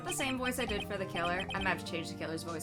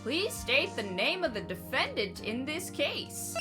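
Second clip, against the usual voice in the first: put-on grumpy old man; 3 semitones higher than usual. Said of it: "old man voice".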